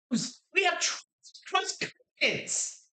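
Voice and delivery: very high, chipper little voice; chipper chirping voice. Acted. Robot's second voice pipes up through its throat, chipper. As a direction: chirp it out brightly, far above your own pitch. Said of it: "a chipper voice kinda chirps through my throat".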